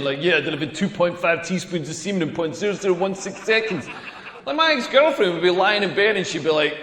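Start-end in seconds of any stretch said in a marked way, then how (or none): 0.2-3.9 search engine voice. Retold or imitated. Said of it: "I'm like the Google search engine".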